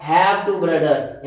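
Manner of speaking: slow and clear; slow model sentence. Shown as a demonstration. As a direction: dictate each word. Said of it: "तो". (धीमे से बोलो)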